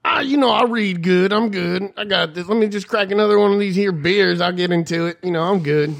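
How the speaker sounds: a lightly voiced dismissive coworker; mock slacker. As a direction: shrug it off like a lazy beer drinker. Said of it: "Hey, buddy, you wanna look over it".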